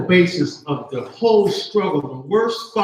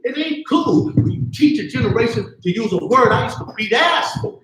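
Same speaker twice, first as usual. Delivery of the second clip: heated shout; 6 semitones higher than usual. Real, not acted. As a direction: drive it home in anger. Heated rant about the word.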